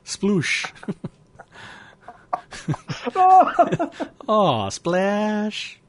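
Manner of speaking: high giggly sploosh; silly laughing sound words. Real, not acted. Host giggles out silly splash noises, high and laughing.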